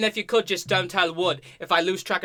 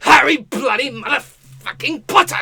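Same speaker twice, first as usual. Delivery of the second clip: slow, drawn-out shouted name, louder and higher; triumphant shout; 6 semitones higher, 6 dB louder than usual. Acted. Harry Potter ending his rap battle, slow triumphant shout. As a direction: bellow your own name as the big finale.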